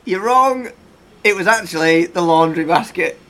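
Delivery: big, loud gotcha reveal; triumphant game-show reveal. Real, not acted. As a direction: announce the answer emphatically. Game host reveals the answer.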